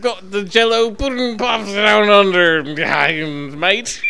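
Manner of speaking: high, loud hammed-up Australian accent as Bill Cosby; a big cheery Aussie greeting as Bill Cosby. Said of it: "Australian Bill Cosby".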